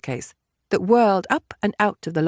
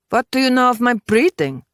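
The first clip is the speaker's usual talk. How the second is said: affronted; 6 semitones higher, 5 dB louder than usual. Acted. Affronted reply to an insult.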